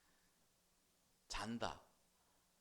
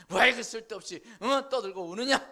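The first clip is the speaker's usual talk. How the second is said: loud, higher scolding question; loud rebuke; 6 semitones higher, 16 dB louder than usual. Acted. Jesus scolding the wailing mourners, loud and higher. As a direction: call the mourners to order. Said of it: "뭐 그런 말이겠지".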